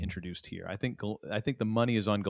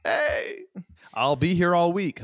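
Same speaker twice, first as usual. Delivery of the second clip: brash vaudeville comic; 7 semitones higher, slower than usual. Acted. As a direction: play the corny club comic taking a bow. Stand-up comic sign-off joke.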